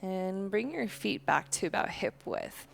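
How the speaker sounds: calm, unhurried yoga-teacher voice; guided breathing meditation. Real, not acted. Leads slow breathing meditation.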